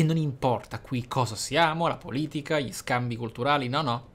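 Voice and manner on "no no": ordinary delivery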